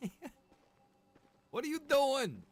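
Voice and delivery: normal talking voice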